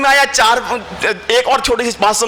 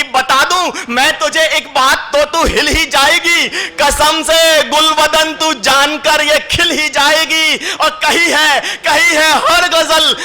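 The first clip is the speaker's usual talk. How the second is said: higher, slow, drawn-out ghazal delivery; poetry recital; 4 semitones higher, slower than usual. Acted. Poet reciting his ghazal to the audience, slow and sung-out. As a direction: savour each line for the crowd.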